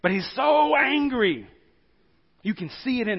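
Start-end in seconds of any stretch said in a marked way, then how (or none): 0.0-1.5 so drawn out slow and high; stress on so. Acted. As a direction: lean hard on the word so, slowly. Preacher stresses the king's rage.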